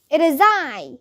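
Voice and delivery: mildly declaimed villain's entrance; grand announcement. A narrator's reading. Villain announces herself to the class, mild proclamation. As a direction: announce yourself with a touch of pomp. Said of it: "she announced".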